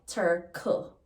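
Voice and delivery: turkle with a k, patois style. Shown as a demonstration. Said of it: "Jamaican patois".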